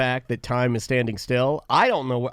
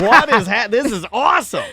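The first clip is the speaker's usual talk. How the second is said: excited; 8 semitones higher, 6 dB louder than usual. Retold or imitated. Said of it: "I'm like".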